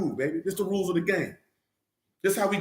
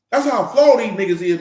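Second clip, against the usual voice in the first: emphatic repeat; 3 semitones higher, 6 dB louder than usual. Real, not acted. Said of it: "I'm not just saying that".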